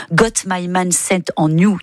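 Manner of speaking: slow English title in a French accent; English words with French radio host's accent. Real, not acted. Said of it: "Toujours ce merveilleux accent anglais qui est le mien".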